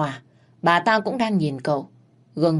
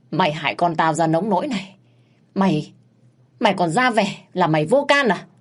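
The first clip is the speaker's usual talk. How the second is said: a raised, accusing mother's voice; angry accusation; 3 dB louder than usual. Acted. Grieving mother accusing the maid, angry. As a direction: blame her for the son's death.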